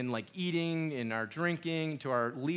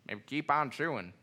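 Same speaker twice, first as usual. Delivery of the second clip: Southern accent. Shown as a demonstration. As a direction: say keep on chewing like a Southern preacher. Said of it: "it's better in a Southern accent".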